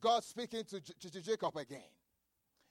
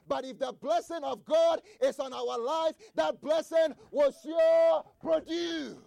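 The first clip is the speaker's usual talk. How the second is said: rising preacher shout; 3 semitones higher, 5 dB louder than usual. Real, not acted. Preacher builds to his climax.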